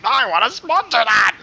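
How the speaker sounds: slow, self-important exec; boardroom exec voice. Retold or imitated. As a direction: play a pompous exec. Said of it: "some dude in the boardroom's like".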